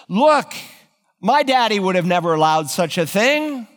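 a queen scorning her weak husband, rising to a shout; taunting scornful wife. Acted. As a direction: goad him, climbing to a yelled finish. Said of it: "this evil woman is hammering home".

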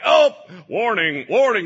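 loud slow warning call; hammed-up alarm; alarm shout. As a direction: sound the alarm. Holy Spirit alarm.

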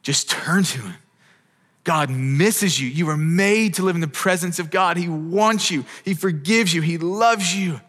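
sustained, earnest pulpit appeal; impassioned preaching. Real, not acted. Preacher urges the congregation to turn to God, impassioned preaching. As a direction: preach it with rising conviction and urgency.

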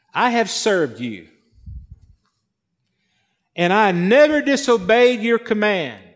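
mildly aggrieved, measured complaint; setting him straight. Acted. Older son answering his father, mildly resentful. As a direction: lay out your grievance piece by piece. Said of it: "is setting his father straight".

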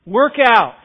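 a firm shout to get moving; loud exhortation. Real, not acted. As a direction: punch both words out to the room. Preacher repeating the exhortation.

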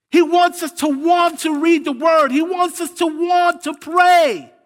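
high, loud, climactic cry, slowing on pray; preaching shout. Acted. Sermon climax.

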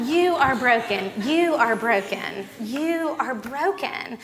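solemn repeated "You are broken"; emphatic repetition. Retold or imitated. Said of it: "heard the Lord say to me".

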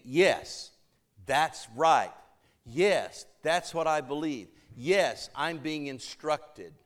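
firm affirmations, each yes punched; teaching-voice response. Acted. Congregation answering the preacher's teaching, firmly affirming. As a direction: affirm it like a pupil taking in teaching. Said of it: "the teaching voice is saying".

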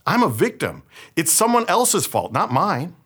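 lightly acted innocent protest; playing the victim. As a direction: act out shifting the blame, pitch rising. Acting out Eve shifting the blame.

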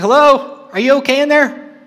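calling through a door. Retold or imitated. Housemate knocking on his door at night, calling in high. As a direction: imitate a concerned housemate calling in.

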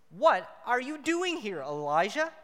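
a hint of a booming divine voice; God calling. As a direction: call out to Elijah with slow authority. God's voice read aloud.

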